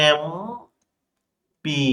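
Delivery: এমপি drawn out very slowly, letter by letter, "em-pee" with a clear vowel start; MP spelled out slowly. Shown as a demonstration. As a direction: stretch এমপি so the opening e sound is heard. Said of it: "এমন সাউন্ডটা হচ্ছে".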